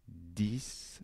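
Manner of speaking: discutons split "dis... ku... ton", softly; quiet, very slow dictation of discutons; syllable by syllable. Shown as a demonstration. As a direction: say discutons softly with long gaps between syllables. Sounds out the word while correcting.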